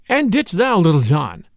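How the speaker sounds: ordinary delivery, nothing marked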